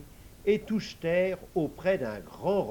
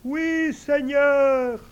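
much higher, louder eager servant voice; invisible servant; 11 semitones higher, 11 dB louder, much slower than usual. Acted. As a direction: answer the master high and ready.

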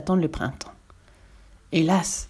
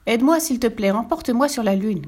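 calling out; 6 semitones higher than usual. A narrator's reading. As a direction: call up to a bird overhead. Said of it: "cria-t-elle".

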